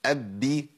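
أب held into بي; doubled ب with kasra. Shown as a demonstration. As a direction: close the lips on أب then open into بي. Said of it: "المشددة بكسر".

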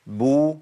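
بو rounded and stressed; ب with damma. Shown as a demonstration. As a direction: say بو with rounded lips. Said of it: "المحركة بضم".

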